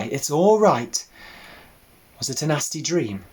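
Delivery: calm the frightened piglet gently; soothing. Acted.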